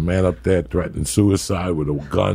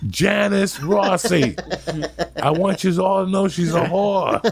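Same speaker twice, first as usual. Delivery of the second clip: mock yell; 8 semitones higher than usual. Yelling insults up at apartment.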